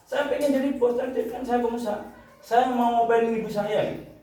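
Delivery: high-pitched imitation of wailing to God; retold tearful prayer. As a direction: beg like a child near tears, pitched high. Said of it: "Sampai nangis itu". (menirukan doa merengek bernada tinggi)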